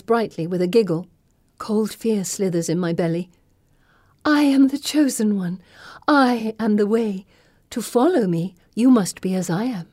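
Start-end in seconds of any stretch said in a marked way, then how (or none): 4.3-9.9 put-on possessed girl proclaiming. Pippa possessed, proclaiming herself chosen.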